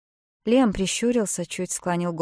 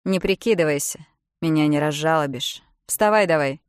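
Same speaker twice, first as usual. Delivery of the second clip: loud, cold command; stern order; 6 dB louder than usual. Acted. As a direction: order her to get up. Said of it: "велел Лиам". (Лиам холодно и громко приказывает)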